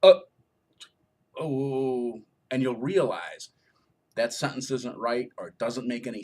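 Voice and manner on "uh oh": startled stumble. Retold or imitated. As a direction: act catching a mistake mid-read. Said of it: "You'll go".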